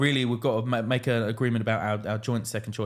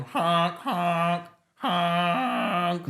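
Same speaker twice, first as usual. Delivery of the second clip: drawn-out higher honks; foghorn imitation; 4 semitones higher, much slower than usual. Describing the end of the song, imitated foghorn honks. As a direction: honk like a foghorn. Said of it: "there's, like, a foghorn".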